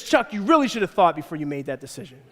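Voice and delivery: calmly pin the blame on the husband; reproachful wife. Acted.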